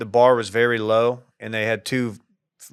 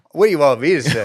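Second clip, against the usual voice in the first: mock disbelief, louder, slightly higher; shocked; 3 semitones higher, 6 dB louder, faster than usual. Golfer caught off guard by press question, shocked. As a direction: play stunned and put on the spot. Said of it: "he's so shocked. He's like".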